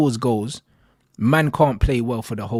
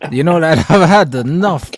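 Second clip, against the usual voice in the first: laughing; 4 semitones higher, 9 dB louder than usual. Real, not acted. Laughing, loud, in banter.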